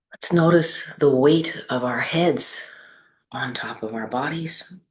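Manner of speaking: unhurried guiding voice with long pauses between phrases; measured, spacious meditation delivery; guided meditation. Acted. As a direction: lead them gently through the body, leaving space after each phrase. Leads a seated meditation.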